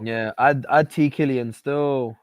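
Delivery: roadman slang, slow and drawled; london roadman accent. Acted. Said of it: "Why are you trying to speak like a road man?".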